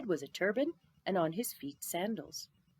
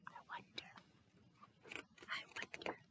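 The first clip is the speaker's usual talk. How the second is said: breathy hushed wondering; hushed and wistful; whispered musing; 18 dB quieter than usual. A narrator's reading. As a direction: let it drift away softly to yourself. Narrator's musing aside.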